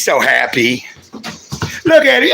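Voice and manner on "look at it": high, very slow drawn-out coo; slow high delighted coo. Real, not acted. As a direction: stretch it out, thrilled with the pup. Delighted at the dog.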